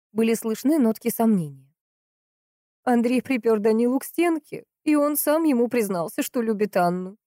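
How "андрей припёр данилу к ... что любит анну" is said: higher woman's voice, insistent; pitched-up, pressing accusation from the sister; Valentina, urgent accuser. Acted. Sister accuses the friend of coveting the bride, urgent.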